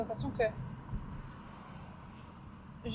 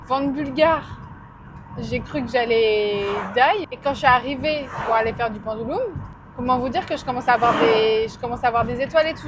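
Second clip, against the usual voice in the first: raised voice over the wind; shouting over wind; 4 dB louder than usual. Real, not acted. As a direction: speak up over the open window. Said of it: "J'espère que vous m'entendez avec le vent".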